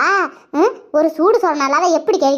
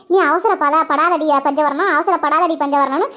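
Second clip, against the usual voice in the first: inner voice; slower than usual. Retold or imitated. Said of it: "ஒரு குரல் கேட்டுக்கிட்டே இருக்குட்டி".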